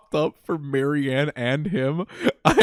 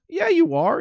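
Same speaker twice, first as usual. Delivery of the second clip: very high-pitched imitated comeback; mock insisting. Acting out Ralphie contradicting his friend, high mock insistence. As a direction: insist in a squeaked-up character voice.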